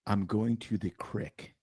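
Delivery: "crick" rhyming with "brick", said slowly; hillbilly "crick". Retold or imitated. Host quoting Oregon hill folk saying "crick" for creek. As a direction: slowly quote it, "crick" with a short i. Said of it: "you hillbilly".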